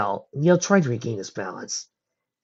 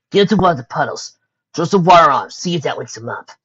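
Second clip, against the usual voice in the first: calling out; 5 semitones higher, 7 dB louder than usual. A narrator's reading. Calling from another cell.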